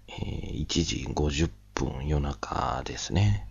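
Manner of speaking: hushed and slow so as not to wake anyone; quiet at night. Real, not acted. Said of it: "なんで小声かというと".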